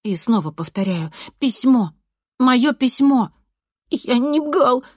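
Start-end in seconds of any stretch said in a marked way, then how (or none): 1.4-3.3 raised, loud, short exclamations; insistent demand. A narrator's reading. Narrator repeats demand to boy. 3.9-4.8 high, loud snuffly protest; whiny nasal boy. A narrator's reading. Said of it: "гундосит Ренат".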